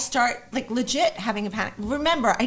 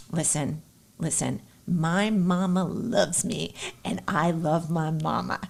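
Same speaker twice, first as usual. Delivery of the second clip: lower, softer and slow, a steady pilot voice; calm pilot; 6 semitones lower, 5 dB quieter, slower than usual. Retold or imitated. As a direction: soothe the nervous passenger, deep and unhurried. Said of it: "the pilot turns to me and he goes".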